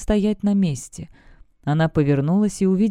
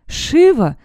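much higher, louder cry of her name; joyful shout; 10 semitones higher, 7 dB louder than usual. A narrator's reading. Demoness rushes to the chasm, shouting Shiva's name much higher. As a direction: rush to the edge and call out. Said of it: "кинулась к разлому Демонесса".

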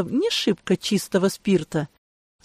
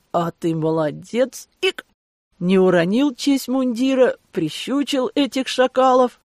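tipsy voice broken by a hiccup; slurring drunk, then a hiccup; 3 semitones higher than usual. Acted. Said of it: "Жоля ещё раз пьяно икнул".

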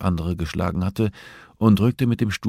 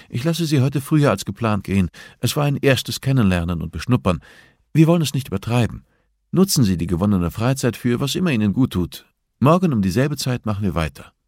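a touch higher, calm and composed therapist; lightly voiced therapist Hannah; 5 semitones higher than usual. Hannah ends the session. (leicht gesprochene Therapeutin, ruhig und bestimmt)

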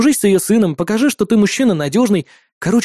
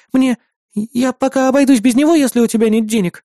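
a shy younger sister making excuses; timid little sister; 7 semitones higher than usual. Acted. Sister apologizing to her brother for the broken phone, timid.

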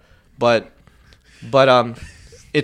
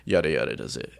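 exasperated; 9 semitones lower, 8 dB quieter than usual. Shown as a demonstration. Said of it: "you could be like".

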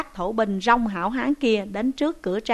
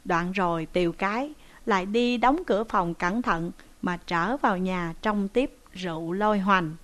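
usual speaking voice

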